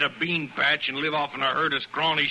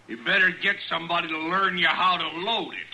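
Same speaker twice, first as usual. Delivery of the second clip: higher, scornful jab; mocking jeer; 7 semitones higher than usual. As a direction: toss off the insult with a sneer. Rancher mocking the sheepman.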